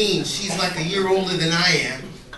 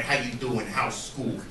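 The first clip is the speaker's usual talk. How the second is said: quiet, lower, awkward small-talk voice; 7 semitones lower, 7 dB quieter than usual. Retold or imitated. Stepdad awkwardly asking the teen, quietly. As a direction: mumble the questions like a nervous stepdad.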